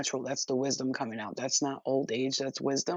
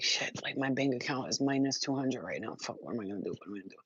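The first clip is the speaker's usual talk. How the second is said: worried mutter; 3 semitones lower, 5 dB quieter than usual. Retold or imitated. Retold panic about money.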